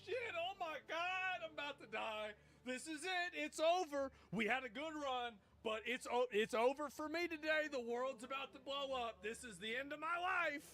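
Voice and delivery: high, slow, panicked dog voice; panicking dog. Retold or imitated. Commentator voicing a dog scared of fireworks, high panicky wail. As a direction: squeal it like a terrified dog on Fourth of July. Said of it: "a dog's like".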